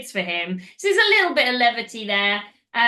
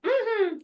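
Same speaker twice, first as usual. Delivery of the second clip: retold censor; 11 semitones higher than usual. Shown as a demonstration. Hums in place of censored word.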